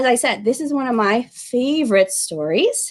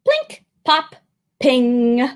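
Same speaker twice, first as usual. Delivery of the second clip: robot sounds; much slower than usual. Acted. Sound effects of robot parts.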